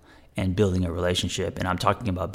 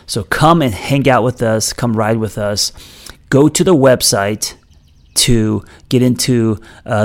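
upbeat, louder podcast ad read; promo read; 7 dB louder than usual. Acted. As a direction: pitch your community to listeners, projecting. Reads a promo for own membership.

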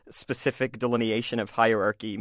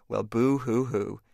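mock crying; 2 semitones lower, slower than usual. Bully mocking himself.

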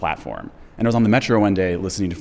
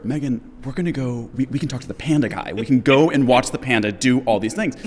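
higher-pitched retold excitement, building in volume; excited; 4 semitones higher than usual. Host urging co-producer to see pandas, excited re-enactment. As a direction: pitch the panda outing like an eager fan. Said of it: "it was really exciting for me".

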